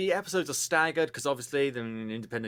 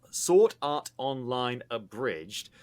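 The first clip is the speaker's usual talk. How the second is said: careful slow; 3 semitones lower, slower than usual. Real, not acted. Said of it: "that's a hard thing to say".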